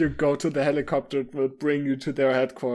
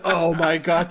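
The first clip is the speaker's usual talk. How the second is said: ordinary delivery, nothing marked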